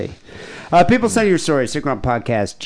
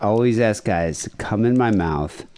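imitating caller's sexy voice; 4 semitones lower than usual. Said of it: "I love the way she said that".

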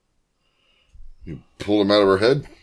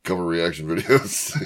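flat mechanical robot voice; monotone machine delivery; 6 semitones lower, 5 dB quieter than usual. Acted. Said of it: "This is my robot voice".

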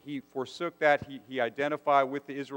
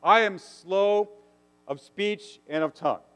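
higher, louder, earnest plea; Moses pleading with God; 4 semitones higher, 3 dB louder than usual. Retold or imitated. Moses protesting to God, higher and louder. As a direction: beg the Lord to be let off. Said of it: "Moses says".

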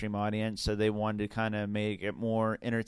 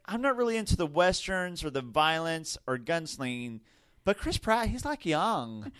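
put-on teen girl voice; 4 semitones higher than usual. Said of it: "in this seventeen-year-old's mind, she's like".

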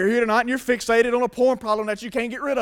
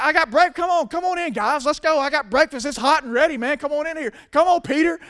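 eager, higher-pitched acted invitation; lively, raised urging to come on in; Jesus calling to breakfast; 5 semitones higher than usual. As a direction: wave the guys in to eat, insistently. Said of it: "He's got".

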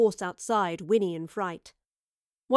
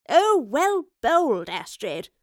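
slow loud delighted cheer; 5 semitones higher, 6 dB louder, slower than usual. Acted. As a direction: cheer the good shot. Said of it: "cheered the professor".

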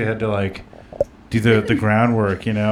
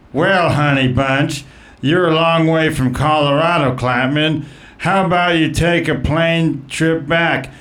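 lightly voiced campy roaster, some lines higher; Bruce Vilanch; 4 semitones higher than usual. Roaster mocking opponent Klapman in a light campy voice. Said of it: "I'm gonna play the part of, uh, Bruce Vilanch".

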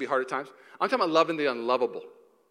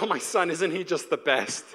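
doting parent. Acted.

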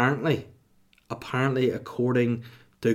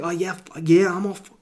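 strained fine; 7 semitones higher, 5 dB louder than usual. Retold or imitated. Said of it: "And he's like".

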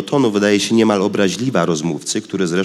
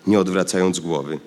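ordinary delivery

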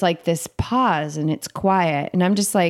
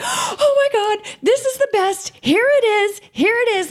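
inner glee. Retold or imitated. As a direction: squeal with secret joy, barely held in. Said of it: "But inside, I'm like".

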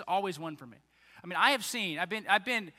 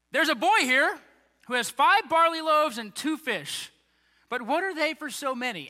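higher and louder eager report; eager Andrew report; 8 semitones higher, 7 dB louder than usual. Retold or imitated. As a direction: announce it like big news from the crowd.

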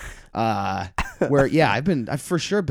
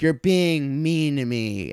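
slow, higher mimicked drunk complaint; drunk heckler; 5 semitones higher, much slower than usual. Drunk lady complains to comic, slow mock whine. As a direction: lightly imitate a drunk woman whining, drawn out. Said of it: "she was, like, obviously drunk".

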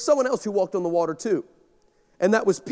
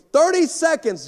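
countdown call; 7 semitones higher, 3 dB louder than usual. Retold or imitated. Producer countdown.

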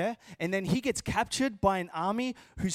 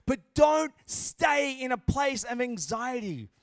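preaching; 3 semitones higher, 4 dB louder than usual. Real, not acted. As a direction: urge the congregation firmly. Exhorts the congregation forcefully.

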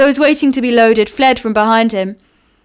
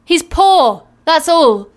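pitying voice; 6 semitones higher, slower than usual. Acted. Carrier defends giant.

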